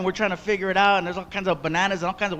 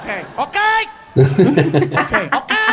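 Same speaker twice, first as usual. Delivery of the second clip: nervous agreement; 2 semitones higher, 4 dB louder, slower than usual. Retold or imitated. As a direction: fumble out the okays uneasily. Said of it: "And I'm like".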